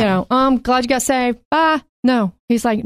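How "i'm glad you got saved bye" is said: chirpy brush-off. Retold or imitated. Imitating a leaving God.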